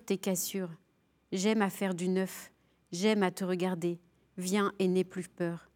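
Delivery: solemn, measured poem recital with God speaking tenderly; poem reading. Acted. Guest on a spiritual show reads Péguy aloud, solemn recital. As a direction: read it like a prayer, each word weighed.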